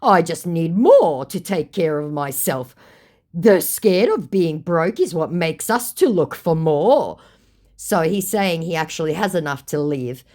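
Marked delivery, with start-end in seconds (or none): 0.0-7.2 mock scammer voice. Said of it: "he goes".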